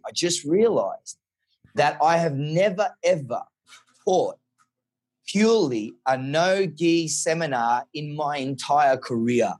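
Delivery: slow, deliberate bad Portuguese accent. Quoting the professor's confession in a bad Portuguese accent. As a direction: stretch it out in a mock Portuguese accent. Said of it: "Portuguese accent".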